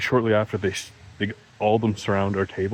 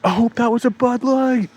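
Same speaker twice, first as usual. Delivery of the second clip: much higher, louder put-on joking voice; deadpan quip; 14 semitones higher, 6 dB louder than usual. Lone bar patron cracking a joke into the silence, high and loud. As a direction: toss it out as a cheeky one-liner. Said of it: "I'm just like".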